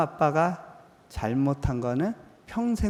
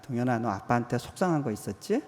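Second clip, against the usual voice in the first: tender; 4 semitones lower than usual. Retold or imitated. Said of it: "안으면서 도닥도닥 하면서 물었습니다".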